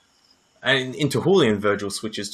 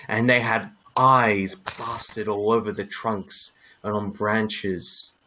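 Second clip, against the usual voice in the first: measured, slowed scene-setting narration; game master narration. Acted. Game master describing the glowing forest to the players, measured narration.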